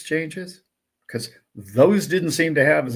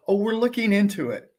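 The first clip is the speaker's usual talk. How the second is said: higher, dismissive mock brush-off; mocking excuse; 7 semitones higher than usual. Exchange boss brushing off angry traders, mock high. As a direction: mimic a lame corporate excuse. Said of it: "I don't wanna hear".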